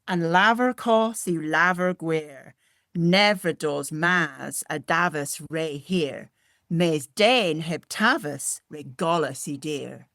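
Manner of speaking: slow, careful Cornish saying; Cornish recitation. Shown as a demonstration. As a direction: recite the old Cornish proverb slowly. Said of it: "the saying goes like this in Cornish".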